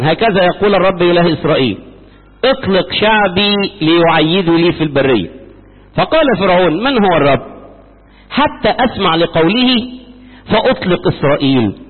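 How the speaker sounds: steady, formal reading of scripture. Acted. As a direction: read it out like a Bible lesson. Reads scripture. (قراءة رسمية من الكتاب المقدس بصوت ثابت)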